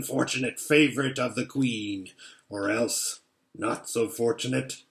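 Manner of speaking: low, sly menace on the last words; a veiled threat; sly wolf. Acted. Wolf taunts Edmund.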